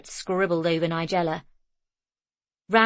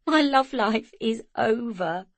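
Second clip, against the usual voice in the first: giggling; 4 semitones higher, slower than usual. A narrator's reading. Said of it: "She giggled relentlessly".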